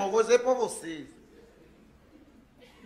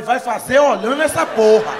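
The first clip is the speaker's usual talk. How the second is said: 1 angry yell; 10 dB louder than usual. Retold or imitated. Angry order to the driver.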